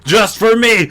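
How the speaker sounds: high squeaky echo. Pretend. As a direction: pitch it way up, playful.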